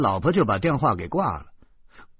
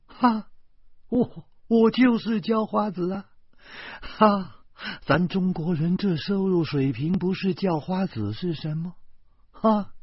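laughing; 9 semitones higher than usual. A narrator's reading. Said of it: "忽然笑着说".

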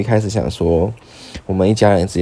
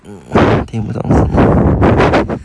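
playing dumb; 5 dB louder, much slower than usual. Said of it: "你在装傻啊？".

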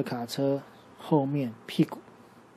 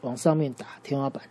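大声下令; 4 semitones higher, 4 dB louder than usual. Acted. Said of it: "拉斐尔就说".

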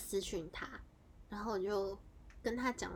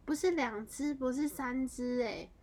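high, loud, slow stunned counting; shocked disbelief; 4 semitones higher, 6 dB louder, slower than usual. Retold or imitated. Stunned by the ghost count, slow high and loud. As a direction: stretch each word in disbelief. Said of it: "我想说".

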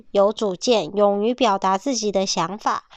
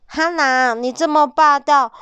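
higher, louder irritated protest; mild annoyed complaint; 5 semitones higher, 4 dB louder than usual. Acted. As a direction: push back at the bossy wolf. Piglet complains to bossy wolf.

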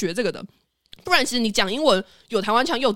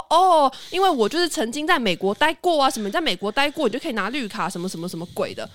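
lightly mocked foreign-accented Mandarin, a bit higher; imitating a self-styled English teacher's odd foreign-accented Chinese; hint of a foreign accent in Mandarin, boastful; 3 semitones higher than usual. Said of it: "用怪腔怪调讲中文的一个语气".

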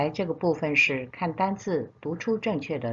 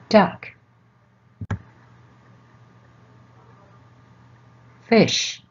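loud; 2 semitones higher, slower than usual. Shown as a demonstration. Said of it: "现在请小朋友自己念念看".

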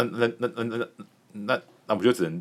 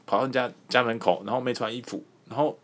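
higher and louder mock scolding that climbs as it goes; a hammed-up higher indignant woman's voice; scolding neighbor girl; 6 semitones higher, 3 dB louder than usual. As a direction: play the outraged girl telling off the intruder. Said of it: "他就非常的生气".

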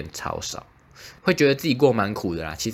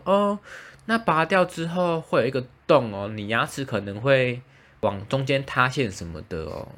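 lightly voiced dentist, much higher on the opening; 4 semitones higher than usual. Patient imitating the dentist warning her, high voice.

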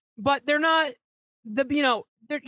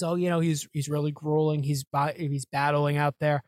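mock Boone; 5 semitones lower than usual. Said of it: "we gotta hear Boone sing his praises".

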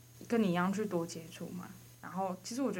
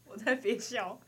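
trying not to laugh; 3 semitones higher, 4 dB louder, slower than usual. Real, not acted.

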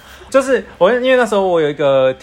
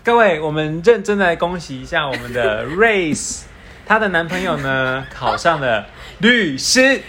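slow, grand announcer tone; mock formal announcement; slower than usual. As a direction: announce it like a ceremony. Mock solemn congratulation.

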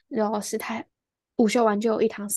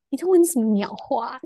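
irritated inner thought; 2 semitones higher, 5 dB louder than usual. Retold or imitated. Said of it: "超不爽".

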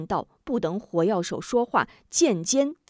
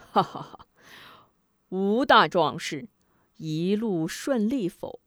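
smug sneer. Acted. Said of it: "老者得意的一阵阴笑".

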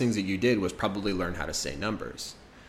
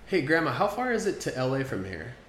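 grandchild asking; 3 semitones higher than usual. Acted.

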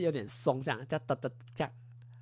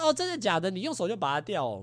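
surprised disbelief; 4 semitones higher than usual. Retold or imitated. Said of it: "我说".

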